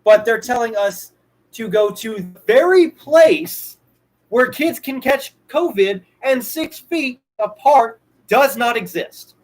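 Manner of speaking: slow, emphatic restatement. Shown as a demonstration. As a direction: drag it out so it sinks in. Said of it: "let me repeat that part too".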